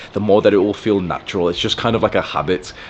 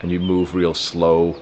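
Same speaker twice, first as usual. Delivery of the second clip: slow flirting voice; 2 semitones lower, slower than usual. Shown as a demonstration. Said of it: "activate that slow, resonant, masculine voice".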